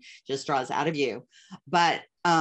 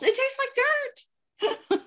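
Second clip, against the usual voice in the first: much higher, slow, laughing and half crying; laughing whine; much slower than usual. Retold or imitated. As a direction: drag it out through laughter. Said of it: "I'm like".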